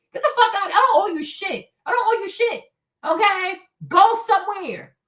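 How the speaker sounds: sharp high-pitched brush-off; defiant outburst. Real, not acted. Defiant rant at white people.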